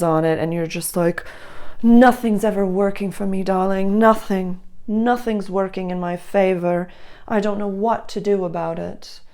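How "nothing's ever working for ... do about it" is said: mock melodramatic lament, darling and all; lightly hammed-up film diva sighing over bad luck; old movie diva. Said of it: "so old movie of you right now".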